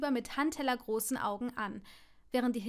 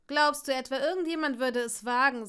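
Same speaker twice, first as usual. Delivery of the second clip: louder, arrogant challenge; loud scoff; 2 semitones higher, 7 dB louder than usual. Acted. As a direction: dare him openly. Draco scoffs at Neville.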